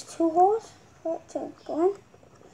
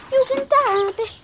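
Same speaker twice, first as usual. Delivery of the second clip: shouting; 8 semitones higher, 8 dB louder than usual. Real, not acted. Yelling at brother.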